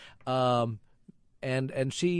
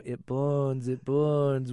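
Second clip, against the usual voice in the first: mock possessed child; 2 semitones higher, much slower than usual. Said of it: "hearing your child go".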